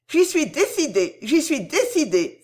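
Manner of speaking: high, insistent exclamation; heroine's high-pitched frantic assurance; fervent cry. A narrator's reading. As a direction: cry out your resolve, repeating it urgently. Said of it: "s'écria Cécile".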